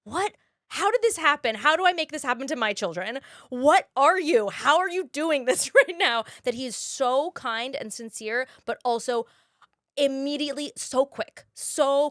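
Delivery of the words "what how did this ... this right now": high, loud incredulous questions; mock amazement. Praising Jack McBrayer to cohosts, mock amazement. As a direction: marvel at how kind he is.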